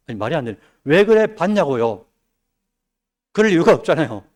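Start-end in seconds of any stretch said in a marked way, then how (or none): 0.8-2.0 complaining believer. Retold or imitated. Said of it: "불평과 원망으로요?".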